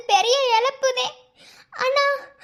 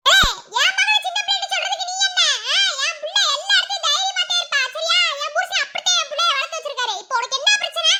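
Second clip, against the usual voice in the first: high, fast angry retort; angry defiance; 5 semitones higher, faster than usual. Acted. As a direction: defend her daughter fiercely. Mother defends daughter angrily. (மகளுக்காக கோபமாக வேகமாக பதிலடி)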